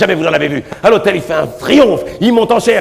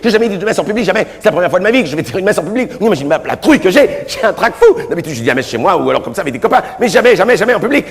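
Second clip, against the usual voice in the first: terrified novice priest, voice pitched up and hurried; panicked young seminarian; 2 semitones higher, faster than usual. Acted. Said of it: "lui dit".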